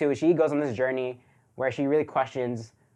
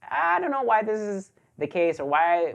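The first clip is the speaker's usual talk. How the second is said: high-pitched, unsure reaction; hesitant, questioning tone, lifted high; doubtful; 7 semitones higher than usual. Retold or imitated. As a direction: voice your puzzlement, pitched up high. Voicing his own doubts during the film.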